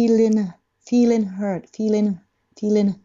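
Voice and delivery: "feeling" as "feelin" with an audible N release; released final N. Shown as a demonstration. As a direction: end "feeling" on a tongue-tip N. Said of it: "Nの外れる音がす". (「feeling」の語尾をNで発音)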